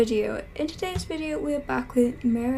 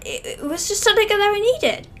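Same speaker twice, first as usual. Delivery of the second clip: loud defensive protest; 6 dB louder than usual. Pretend. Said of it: "she's like".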